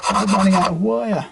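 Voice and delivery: sudden high yelp of surprise; surprised. Real, not acted. Guitar tech notices the wire running out mid-job, surprised. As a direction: caught off guard, pitch jumps up. Working on frets, wire runs short.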